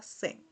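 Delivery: Z said as a buzzing zzz like a bee; a soft bee buzz for Z. Shown as a demonstration. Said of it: "como el sonido de la abeja".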